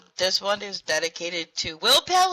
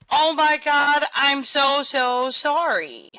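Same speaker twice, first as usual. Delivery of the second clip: higher, louder frantic apology; mock apology from Will; 4 semitones higher, 4 dB louder, slower than usual. Host reading out Will's apologetic texts, lightly mock-panicked. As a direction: act out Will's panicked text, a bit hammed up. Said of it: "from Will saying".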